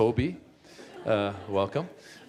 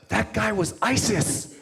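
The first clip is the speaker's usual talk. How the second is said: put-on high, slow, awed little boy voice; shocked kid; 9 semitones higher, slower than usual. Boy at the theater telling the comic, squeaky and stunned. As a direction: gasp it out like a stunned six-year-old. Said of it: "he goes".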